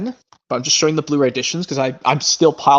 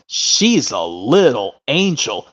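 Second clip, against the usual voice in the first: slow, put-on tender voice; tender movie impression; much slower than usual. Owner praising the new puppy, slow and tender. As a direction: savour it like a doting owner. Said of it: "how about this one where it goes".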